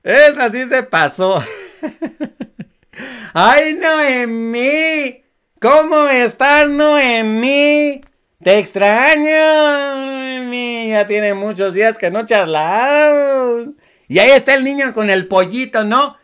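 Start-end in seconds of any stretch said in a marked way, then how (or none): 3.3-13.7 slow, drawn-out, sugary mock greeting; mocking imitation. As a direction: parody her fake sweetness, stretching each word. Mocks the politician's video greeting. (imitación burlona y lenta de la política)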